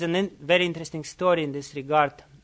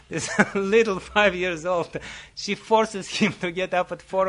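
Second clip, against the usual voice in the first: laughing. Real, not acted. Amused at the strict mother.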